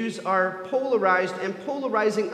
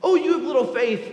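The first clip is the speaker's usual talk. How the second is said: louder, ringing call with weight on Oh; proclaiming; 4 semitones higher, 4 dB louder than usual. Acted. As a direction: preach it out boldly to the room. Repeated call in sermon.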